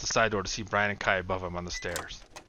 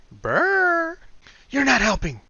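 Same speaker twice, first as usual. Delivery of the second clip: Kai's shiver; 9 dB louder, much slower than usual. Acted. Kai chilled by Will.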